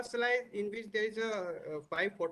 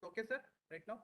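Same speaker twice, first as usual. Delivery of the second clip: barely audible; 3 semitones higher, 9 dB quieter, much faster than usual. Real, not acted. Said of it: "जोर से बोलो".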